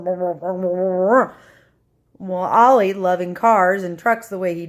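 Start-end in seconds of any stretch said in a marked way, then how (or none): 0.0-1.3 imitated engine. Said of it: "it goes vroom".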